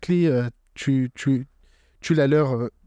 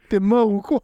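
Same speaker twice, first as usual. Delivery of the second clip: much higher and louder, laughing Luffy; mock Luffy; 8 semitones higher, 4 dB louder than usual. Retelling Luffy poking the dog, high and laughing. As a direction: prod the dog as a giggling Luffy.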